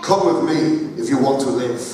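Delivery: another take at a mild Arnold Schwarzenegger voice; deadpan movie robot line, only lightly voiced; a touch of Terminator menace; second Terminator attempt. Shown as a demonstration. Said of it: "Let me do it again".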